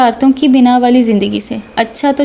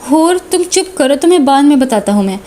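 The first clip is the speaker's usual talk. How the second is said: irritated snap. Acted. Brother snapping at teasing sister.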